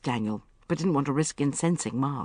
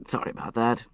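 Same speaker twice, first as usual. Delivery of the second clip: polite; 7 semitones lower than usual. A narrator's reading.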